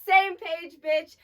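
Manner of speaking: sassy comeback. Retold or imitated. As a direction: throw it back at her with attitude. Acted comeback to rival stripper.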